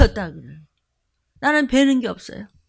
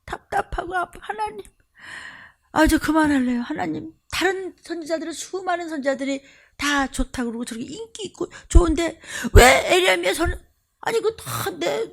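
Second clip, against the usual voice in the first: lightly voiced weary prophet, higher, fading to tears; a touch of crying complaint to God; Jeremiah's lament; 4 semitones higher than usual. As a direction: plead like a tired prophet near tears. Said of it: "에레미야가".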